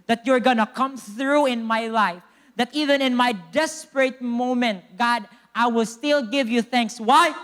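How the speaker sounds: emphatic prayer, building to a loud question; fervent preaching. Real, not acted. Preacher thanks God in a desperate moment, fervent preaching. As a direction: push the thanks out with rising force.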